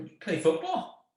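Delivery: slow question rising high; retold probing question. Retold probing question to familiar face.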